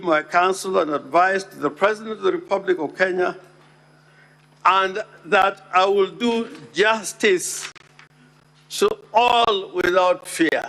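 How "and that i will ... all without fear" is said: slow, weighted stress on "do justice to all"; deliberate, measured "without fear"; emphasizing justice. Shown as a demonstration. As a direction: land hard on "do justice to all". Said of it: "I emphasize the word".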